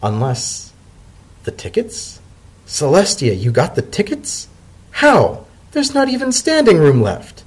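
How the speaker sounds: high, breathless disbelief; can't believe his luck, voice leaping up; amazed. Acted. Leafy realises Dotted got the tickets, amazed. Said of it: "Leafy's eyes went wide".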